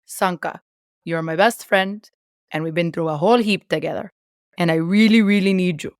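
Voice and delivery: lightly put-on Jamaican accent. Shown as a demonstration. Co-host quotes the movie on request, in a Jamaican accent. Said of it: "do a good Jamaican accent for me".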